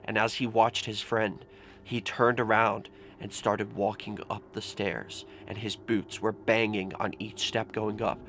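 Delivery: hushed, tense ghost-story narration; nervous night vlog whisper. A narrator's reading. Tells a horror story quietly.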